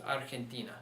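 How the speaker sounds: Argentina stressed on the next-to-last syllable, ar-hen-TI-na; correct Spanish stress. Shown as a demonstration. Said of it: "That's why it's pronounced".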